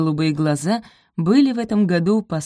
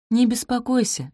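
reassuring; 7 semitones higher than usual. Acted. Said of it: "заверила её Софи".

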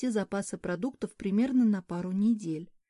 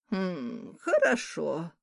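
doubtful hmm; 2 semitones lower, much slower than usual. Acted. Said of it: "не поверила Морган".

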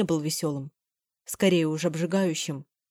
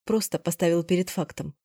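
normal talking voice

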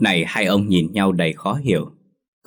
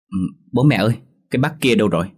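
put-on small child's voice; 3 semitones higher, 3 dB louder, much faster than usual. Small child asks parents.

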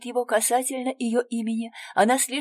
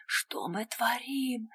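медленный испуганный шёпот; выдохни это почти беззвучно; шёпотом; 4 semitones higher, 6 dB quieter, slower than usual. A narrator's reading. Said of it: "кричит Анир". (кричит шёпотом)

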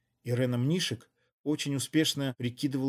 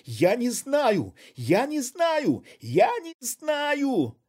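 much higher, louder, slow hysterical cries; hysterical scream; 12 semitones higher, 6 dB louder, much slower than usual. A narrator's reading. Woman hysterically screaming at her accomplice. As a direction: shriek it, losing control. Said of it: "истерично вскричала".

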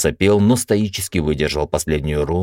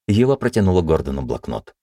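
ordinary delivery, nothing marked

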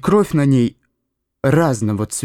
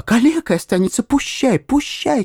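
shouted at the ceiling; 12 semitones higher than usual. A narrator's reading. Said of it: "кричал он в потолок".

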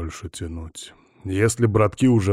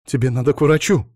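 urgent, higher and louder cry; exclaiming; 6 semitones higher, 4 dB louder, faster than usual. A narrator's reading. Alina urging wounded Bogdan to a doctor, urgent exclamation. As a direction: blurt it out in alarm. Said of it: "воскликнула она".

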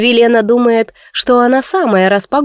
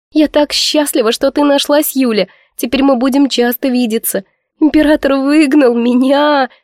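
moaning lament; 4 semitones higher than usual. Acted. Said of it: "простонала Камилла".

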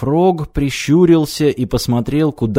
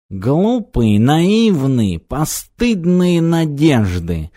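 snorting scorn; 4 semitones higher, much slower than usual. Acted. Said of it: "фыркнул со шкафа кот".

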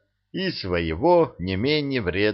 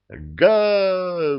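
high, battle-cry roar; roaring bandits; 9 semitones higher than usual. A narrator's reading. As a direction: roar as you charge forward. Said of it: "взревели разбойники".

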